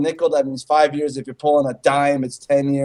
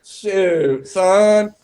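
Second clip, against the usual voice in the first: slow hammed-up Southern drawl; Southern preacher bluster; slower than usual. Riffing with friends, a hammed-up Southern preacher drawl. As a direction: preach it like a backwoods barbecue zealot. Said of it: "you better be preaching that".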